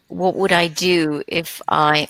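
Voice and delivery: normal talking voice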